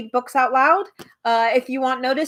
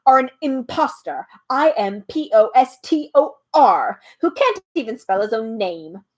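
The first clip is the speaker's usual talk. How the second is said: a mildly raised, agitated accusation; excited shout; 4 dB louder than usual. Acted. Bee accuses the humbug, mildly excited shout. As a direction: fluster through the spelling. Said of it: "shouted the bee very excitedly".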